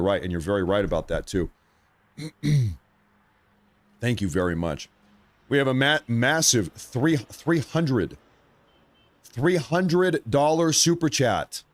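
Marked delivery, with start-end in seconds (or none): 5.5-11.6 high, slow, drawn-out amount; excited announcement. Real, not acted. Streamer announcing his biggest ever super chat, excited. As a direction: savor the big number as you announce it.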